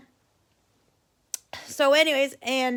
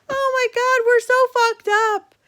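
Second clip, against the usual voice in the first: laughing hard; 12 semitones higher, 6 dB louder than usual. Real, not acted. Cracking up at own cruel prank.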